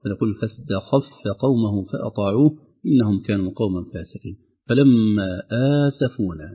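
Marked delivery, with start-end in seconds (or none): 0.4-4.4 فاستخف with the kha kept apart from the qaf; clear kha. Shown as a demonstration. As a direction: separate the kha cleanly from the qaf. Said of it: "أن نخلص الخاء من القاف". (تخليص الخاء من القاف)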